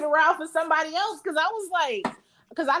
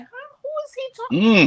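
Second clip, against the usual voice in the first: retold bafflement; 11 semitones higher than usual. Retells her baffled reaction to full name.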